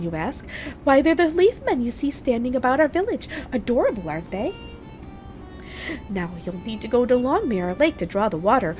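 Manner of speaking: high, gracious fairy queen voice; a regal sprite sweetly asking a favour; goddess. Acted. Voices a fairy figure pleading.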